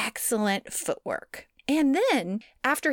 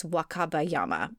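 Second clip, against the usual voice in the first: flat, monotone robot voice; 4 semitones lower than usual. Real, not acted. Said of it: "Sorry, I said that like a robot".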